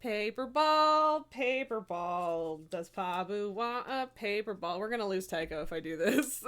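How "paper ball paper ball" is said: sing-song lure. Real, not acted. Luring cat with ball.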